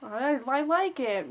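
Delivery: slow, halting reassurance; retold hesitant. Answering mom in the salon, slow and halting. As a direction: stumble into a weak defense. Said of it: "her weak reply to mom".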